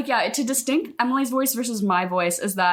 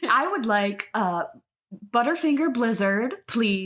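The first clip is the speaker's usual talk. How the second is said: NPC voice; 2 semitones higher than usual. Retold or imitated. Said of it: "it's like a customer service voice".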